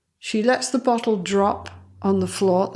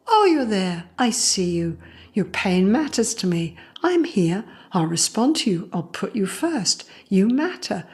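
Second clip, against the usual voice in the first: tender, lilting reassurance; soothing mother. Retold or imitated. Mother's message to her scared kid, soothing. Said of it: "this is the emotional music we're playing".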